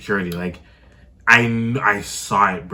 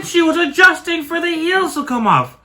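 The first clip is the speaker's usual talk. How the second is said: high, louder, laughing through the story; 14 semitones higher, 6 dB louder than usual. Real, not acted. Telling how Twin got ready to fight, laughing high. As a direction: build up laughing to a squeal. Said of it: "laughing retelling".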